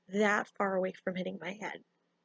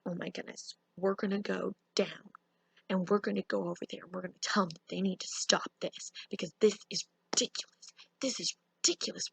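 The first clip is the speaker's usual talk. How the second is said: whispered plotting; 3 semitones lower, 3 dB quieter than usual. Retold or imitated. Siblings plan confrontation, whispering.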